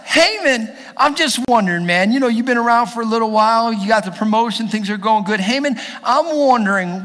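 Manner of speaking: high, eager, chatty address; excited king. Acted. King sounding out Haman about an honor, excited. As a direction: pitch it up, keen to ask his man. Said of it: "he's excited".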